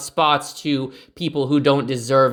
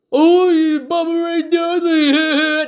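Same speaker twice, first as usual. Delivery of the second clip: high, slow, hammed-up fan squeal; mock excitement; 12 semitones higher, 4 dB louder, much slower than usual. Ranting wrestling fan mocks the Bubba Ray nostalgia cheer, hammed-up squeal. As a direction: sneer by faking thrilled delight, then laugh.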